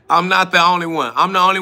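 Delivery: laughing through the repeat. Real, not acted. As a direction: chuckle it out, amused at him. Repeats line while laughing.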